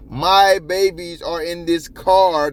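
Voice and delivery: slow, high retold plea; imitated pleading. Host retelling a mom's plea to troopers, imitated pleading. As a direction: imitate a mother pleading, stretching the words out. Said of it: "how many times she pleads".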